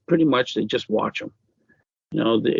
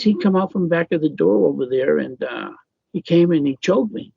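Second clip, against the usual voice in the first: retold child's account in a higher voice; child's urgent report; 5 semitones higher than usual. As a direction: imitate a child insisting to a parent. Child explaining to father, retold.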